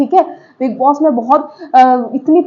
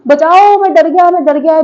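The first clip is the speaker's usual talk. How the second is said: high, loud mock panic; imitating a scared housemate yelling for rescue; mock scared cry; 4 semitones higher, 5 dB louder than usual. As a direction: ham up a frightened plea for help. Mocking Awez fleeing to camera.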